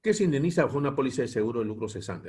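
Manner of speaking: brisk read-out of a heading; fast, formal reading from a slide; reading aloud. Real, not acted. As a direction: read the question quickly off the page. Reads the slide question aloud.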